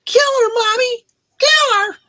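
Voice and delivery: high, loud chanted movie killer whisper; echo mic effect. Retold or imitated. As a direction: call it out like the slasher echo. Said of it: "how Harry came up with the that effect".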